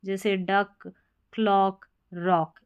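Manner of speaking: डक, क्लॉक, रॉक ending in क; ck read as क. Shown as a demonstration. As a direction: close डक, क्लॉक, रॉक on a k sound. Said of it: "इसको क पढ़ना है".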